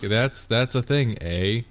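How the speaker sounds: slow mock Canadian with a tagged eh; slow Canadian accent. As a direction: imitate a botched Canadian accent, slowly. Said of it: "a Southerner trying to do a Northerner accent".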